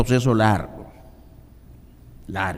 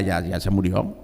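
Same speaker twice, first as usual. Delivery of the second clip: normal talking voice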